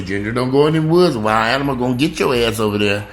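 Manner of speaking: hollering a warning after a runaway dog; mock scolding warning. Owner warning her dog away from the woods, loud scolding. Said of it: "And I always say".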